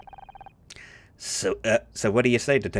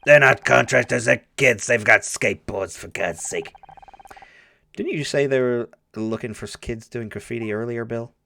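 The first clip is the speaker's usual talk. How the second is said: gravelly voice. Acted. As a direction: growl it like a weary old cop. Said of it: "my gravelly voice".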